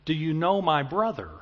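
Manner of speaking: lightly sing-song call from the back. Retold or imitated. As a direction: imitate an odd sing-song voice, gently. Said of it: "just kind of sing-song, odd timbred, unique timbred voice".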